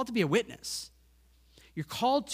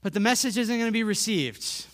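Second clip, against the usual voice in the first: louder, protesting objection; voicing the doubter's complaint, raised and insistent; objecting listener; 5 dB louder than usual. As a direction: push back like a doubtful listener. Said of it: "And you might say".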